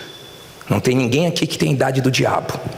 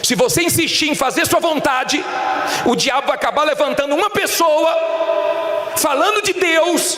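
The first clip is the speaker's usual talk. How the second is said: preach; 12 semitones higher than usual. Real, not acted. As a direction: drive the warning home, pitched high. (pregação enfática, em tom agudo)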